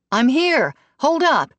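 calling out. A narrator's reading. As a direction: call ahead to stop her.

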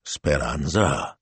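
slow, menacing rumble; low and rumbling. A narrator's reading. Butcher summons the shop owner, low rumble. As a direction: intone the name like thunder. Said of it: "his low and rumbling voice".

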